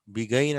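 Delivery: బిగైన్ ending like the word "gain"; wrong spelling pronunciation. Shown as a demonstration. Teacher repeating a possible misreading, deliberate mispronunciation. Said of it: "అనం".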